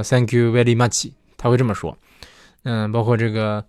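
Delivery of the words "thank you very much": much said as machi, in a mock Japanese accent; slow Japanese-accented English, with a vowel on every ending. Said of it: "日本人说".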